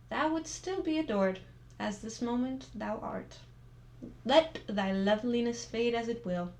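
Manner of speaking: earnest, measured poem recital; reciting an old love poem; poem reading. Acted. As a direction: read it like a heartfelt love poem. Reads a love poem aloud.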